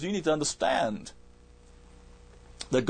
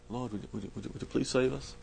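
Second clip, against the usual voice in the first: mock calm polite request; 8 dB quieter, faster than usual. Shown as a demonstration. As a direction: ask sweetly as if nothing's wrong, much softer. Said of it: "nice, calm voice".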